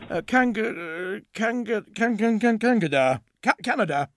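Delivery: stumbling over the word, restarting; fumbling for a lie; stammering. Acted. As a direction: trip on the name before landing it. Ray stammers over country.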